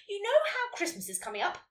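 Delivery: high-pitched teacherly jeer. A narrator's reading. Teacher addressing her silent class, jeering. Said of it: "She jeered".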